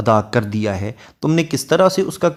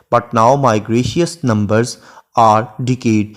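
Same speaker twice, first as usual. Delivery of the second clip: lingering over each word of the sonnet; unhurried classroom recitation of Shakespeare; slow poem recitation; much slower than usual. Shown as a demonstration. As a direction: read the verse very slowly and evenly. Quotes line three of poem.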